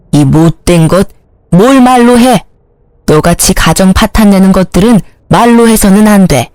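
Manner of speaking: a mother-in-law berating the home-wrecker; furious mother-in-law. Acted. Mother-in-law beats mistress. (상간녀를 때리며 꾸짖는 시어머니)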